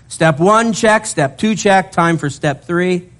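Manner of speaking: upbeat list, rising pitch; excited checklist. Real, not acted. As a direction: check it off with eager energy.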